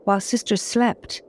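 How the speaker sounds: usual speaking voice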